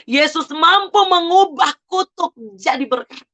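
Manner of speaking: high, fervent cry to God; retold impassioned cry. Retelling her prayer to God about mother's curse, impassioned cry. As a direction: proclaim it upward, reliving the shout. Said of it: "saya berteriak, saya bilang".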